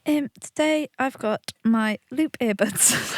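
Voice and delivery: sweet, slow customer service voice. Pretend. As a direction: present it like a cute shop assistant. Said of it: "your cute customer service voice".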